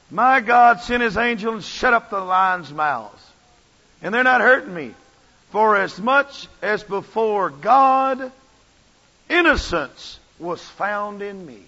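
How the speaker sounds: loud, slow declaration; faithful servant declaring his deliverance; Daniel's proclamation. Retold or imitated. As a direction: proclaim it with full conviction. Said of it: "And Daniel says it".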